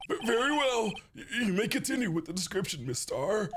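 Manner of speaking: flustered judge. Acted. Judge stammers to the witness.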